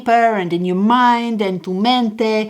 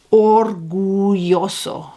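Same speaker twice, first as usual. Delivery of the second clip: slow and savoured; slower than usual. Shown as a demonstration. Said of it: "this word".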